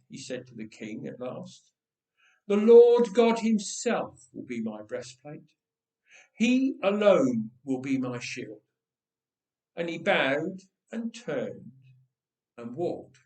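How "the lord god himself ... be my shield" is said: firm declaration. Acted. David declares faith to king.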